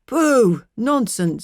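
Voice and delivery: loud dismissive husband; scoffing pooh. A narrator's reading. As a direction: brush the worry aside with a loud snort. Mr Tulliver dismissing.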